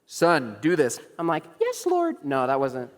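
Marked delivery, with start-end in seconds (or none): 0.1-1.0 lightly voiced divine command, louder; mock voice of God. God calling Samuel in a mock-spiritual moment, louder command. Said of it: "it was like Samuel. He's like". 1.6-2.2 very high, hammed-up pious reply; mock super-spiritual. Preacher jokingly answering God's call, hammed-up and high. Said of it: "pretend that I was super spiritual".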